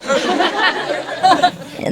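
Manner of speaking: a high burst of laughter; laughing at the meditation machine. Real, not acted. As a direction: laugh out, amused. Joking about meditation machine.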